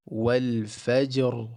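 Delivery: slow-building wal fajr, only the ra heavy; full ra, empty jim in fajr. Shown as a demonstration. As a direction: keep jim light with qalqala, ra full. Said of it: "the ra gets the fullness".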